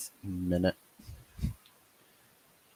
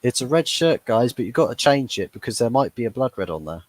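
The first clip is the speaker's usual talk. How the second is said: laughing; 4 semitones higher, 4 dB louder than usual. Real, not acted. Laughing at red shirt joke.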